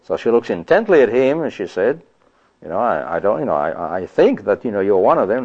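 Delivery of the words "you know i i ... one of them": hesitant. Retold or imitated. Servant girl voiced unsure, then corrected.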